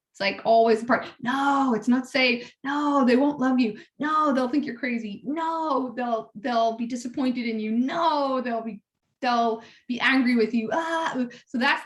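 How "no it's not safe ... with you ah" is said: mildly insistent, each no lifted in pitch; lightly acted ego arguing back; arguing inner voice. False self arguing with a person's intuition, mildly insistent. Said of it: "the part that's always arguing with our intuition".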